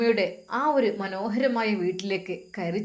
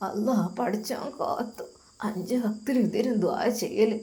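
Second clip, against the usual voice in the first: put-on soft, quiet old woman; an elderly grandma speaking gently from her bed; frail grandmother; 4 dB quieter than usual. Grandmother talks of fear.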